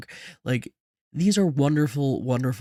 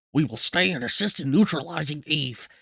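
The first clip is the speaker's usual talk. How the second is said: lightly voiced Churchill-style statesman; measured wartime-leader impression, lightly done; Churchillish voice. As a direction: give it a touch of Churchill oratory. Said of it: "do my Churchillish voice".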